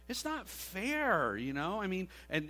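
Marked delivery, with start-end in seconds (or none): 0.1-1.4 put-on whiny kid cry. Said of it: "I used to do that all the time as a kid".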